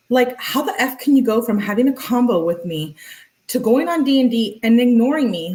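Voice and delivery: acted-out exasperation; mock indignation. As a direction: rant it like an affronted girlfriend. Acting out girlfriend's angry texts.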